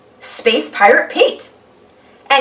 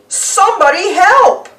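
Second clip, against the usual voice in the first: high calling for help; a lighter cry for help; Pete calling; 7 semitones higher, 3 dB louder than usual. Acted. Pete stuck in the web, calling out. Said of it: "yells Pete".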